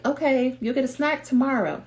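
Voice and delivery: lightly voiced parent, a bit high; placating parent. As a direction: gently put off a toddler at bedtime. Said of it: "Doctor J is like".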